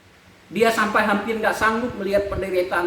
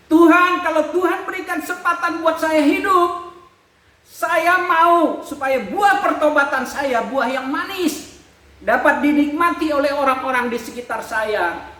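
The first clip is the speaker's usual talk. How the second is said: pleading prayer; 5 semitones higher than usual. Retold or imitated. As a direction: beg for a second chance, voice lifted. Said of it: "saya menangis". (memohon kepada Tuhan dengan suara tinggi dan pelan)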